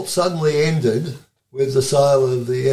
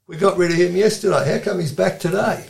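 raised, quick mock official's voice; fast and higher, an indignant site rep; 6 semitones higher than usual. Interviewer mimics the reps catching the sacked worker, quick and higher. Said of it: "reps ... would have gone".

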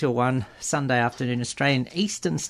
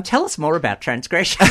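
put-on interviewer, higher and louder; job interviewer voice; 3 semitones higher, 5 dB louder than usual. Host asks guest about the show, mock interviewer voice. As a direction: play the keen interviewer, breaking into laughter. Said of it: "in my best job interview voice".

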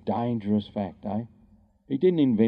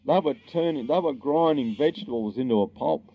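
higher, dismissive mock-scientist voice; 5 semitones higher than usual. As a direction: mimic the know-it-all experts scoffing. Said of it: "the scientists go".

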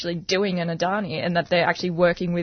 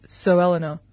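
lightly voiced stern dad; a hint of a disapproving father. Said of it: "you know, disapproving dad voice".

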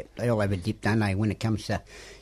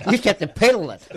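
chuckling through the words; laughing at the joke; 4 semitones higher, slower than usual. Real, not acted. Joking about the old panel.

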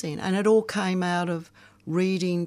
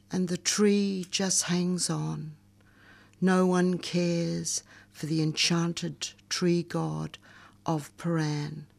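slow, measured poetry recital; poem reading. Acted. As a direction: read it like a spoken-word poem. Reads her poem aloud.

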